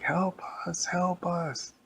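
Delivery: high small voices begging for help; pleading cry. Acted. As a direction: call faintly from inside the jug. Kids trapped inside the drink.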